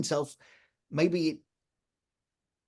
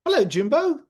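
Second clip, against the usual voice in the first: loud and high; 12 semitones higher, 6 dB louder than usual. Acted. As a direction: talk up to a robot. Talking loudly to robot.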